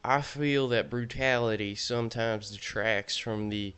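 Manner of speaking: lightly voiced Southern intellectual; mock-smart Southern accent, self-important. Ranking cards as a Southern intellectual, light Southern accent. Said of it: "continuing this accent after I said that I would stop".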